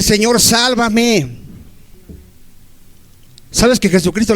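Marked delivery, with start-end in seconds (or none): 0.0-1.4 very slow, earnest plea; preacher showing the flock how to cry out to the Lord, slow and earnest; slow prayerful plea. Shown as a demonstration. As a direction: draw out the cry for salvation.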